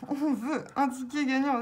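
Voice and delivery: laughing repeat. Real, not acted.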